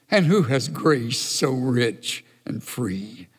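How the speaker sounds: slow, low and tender; tender hymn line. Shown as a demonstration. Preacher reciting a beloved hymn, tender. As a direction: savour the words like a hymn. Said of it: "hymn the church no longer sings".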